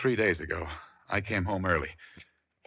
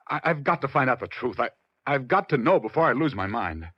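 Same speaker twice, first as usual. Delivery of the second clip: louder, stammering urgency; desperate insistence; 3 semitones higher, 4 dB louder than usual. Acted. Husband demanding the truth from the detective, desperate. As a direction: push through the stammer, near panic.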